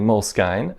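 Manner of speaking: Moleskine as "mole-skine", rhyming with sign; long eye at the end of Moleskine; mocked pronunciation. Shown as a demonstration. Naming what gets mocked, Moleskine said "mole-skine". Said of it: "made fun of for saying".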